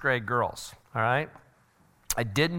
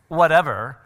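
dismissive mock-teen brush-off; louder, scornful teen retort; teenage attitude; 6 dB louder than usual. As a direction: shrug it off like a teenager. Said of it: "it's the attitude".

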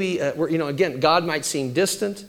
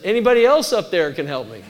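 laughing punchline; 2 semitones higher, 5 dB louder than usual. Retold or imitated. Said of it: "he says".

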